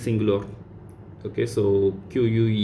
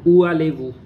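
emphatic model; 4 semitones higher, 6 dB louder, faster than usual. Shown as a demonstration. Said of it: "teacher stresses answer".

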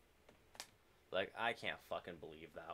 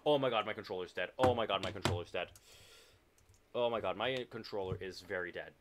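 frustrated outburst; 5 dB louder than usual. Real, not acted. Controller dies mid-game.

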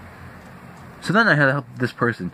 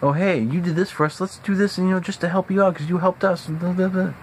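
higher, mockingly sweet imitation; mock-grateful family; 7 semitones higher than usual. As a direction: sarcastically parody the thanks you never get. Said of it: "There's no, like".

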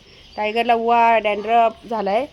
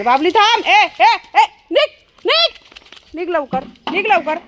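raised, high-pitched scolding; real yelling; 6 semitones higher than usual. Real, not acted. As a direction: shout short orders to drive the dog off. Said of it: "याला असं ओरडायला लागतं".

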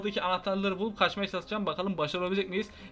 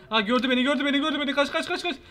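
being chased; 6 semitones higher, faster than usual. Real, not acted. Spotted and fleeing the chaser.

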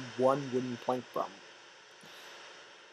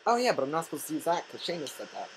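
fast mocking voice; mocking chat; 3 semitones higher, faster than usual. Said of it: "imitating chat".

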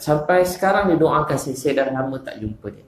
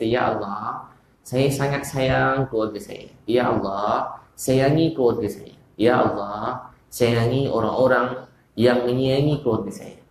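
slow, tender quoted supplication; slow prayer; slower than usual. Retold or imitated. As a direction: pray it gently and slowly. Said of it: "Sambil Nabi kata".

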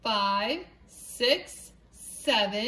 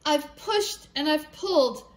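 tired hen; 3 semitones higher than usual. Acted. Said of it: "said the poor muddy hen".

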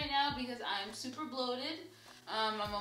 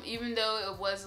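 normal talking voice

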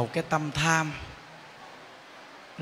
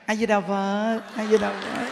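lightly pious greeting; 3 semitones higher than usual. Retold or imitated. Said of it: "đi đến chùa tu mấy ngày nghe, về nhà".

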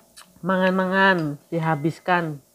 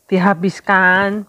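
a firm, louder repeat of Dihabiskan; louder insisting; 5 dB louder than usual. Real, not acted.

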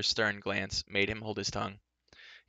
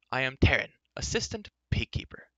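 higher-pitched, dignified self-introduction; proud correction; 4 semitones higher than usual. Acted. Youth giving his title to a rude stranger, proud. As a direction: announce your title with injured pride.

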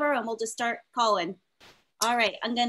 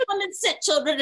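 put-on high, lilting call to the kids, half shouted; mock a sweet yoga teacher calling the toddlers; sing-song teacher call; 6 semitones higher than usual. Imitating herself calling two-year-olds to sit, high and sing-song. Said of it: "I would be like".

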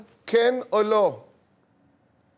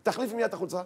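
higher, louder angry order; scolding mother; 5 semitones higher, 5 dB louder, faster than usual. Acted. Mother to daughter about her shirt, angry scolding. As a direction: lay down the law, rising to a loud command. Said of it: "את אומרת לה".

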